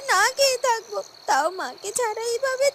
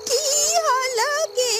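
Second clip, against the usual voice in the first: put-on slow, creaky old woman's drawl; an old hag shuffling in, tired from walking; old crone voice; slower than usual. Old woman tells the girls she is late, slow and weary.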